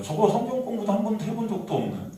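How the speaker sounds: acting out dismissive, muttered accusers; mock contempt in quick bursts; scornful scoffing. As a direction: play the sneering crowd writing him off. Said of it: "유대인들이 무시하는 거예요".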